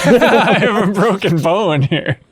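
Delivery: slow giggly mock-injured line; slow laughing quote. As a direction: drag it out while laughing. Joining in the injured joke.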